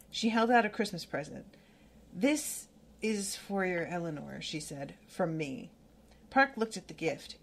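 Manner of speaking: steady read-aloud of a novel passage; story narration. Acted. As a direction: read it out like a book, unhurried. Reading novel aloud, book club.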